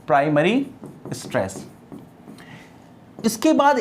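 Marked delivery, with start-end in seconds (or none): 0.1-1.7 प्राइमरी with a rise, then a pause and स्ट्रेस dropped very soft and low; slow repetition. Shown as a demonstration. Teacher repeating the term slowly for students to note. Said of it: "उसको क्या बोल देते हैं?".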